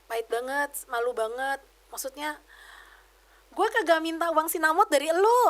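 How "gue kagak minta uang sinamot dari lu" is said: louder and higher, a retold outburst; imitating her own angry comeback; indignant retort. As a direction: fling it back at her, offended. Venting at abusive sister-in-law.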